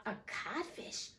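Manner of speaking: soft, toneless echo; blank echo. Acted. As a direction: let it fall out stunned and soft. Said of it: "Hook echoed blankly".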